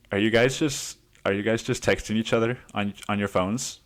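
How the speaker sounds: lightly voiced driver, teasing suspicion; imitating the driver. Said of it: "gangster rap Asian dude is like".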